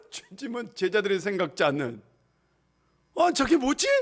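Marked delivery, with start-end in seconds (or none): 3.2-3.9 high, astonished question; puzzled disciples. Acted. Disciples react in astonishment to Jesus. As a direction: sound amazed and confused. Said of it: "할 정도로".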